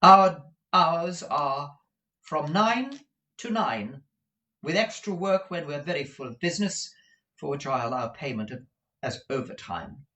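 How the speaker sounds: high, deliberate opening; prim employer stating terms; businesslike Madame Mantalini. Acted. Madam explains hours to Kate, high and businesslike.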